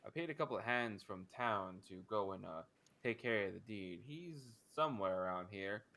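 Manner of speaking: brisk and businesslike; Cecily's voice. Acted. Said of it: "She says".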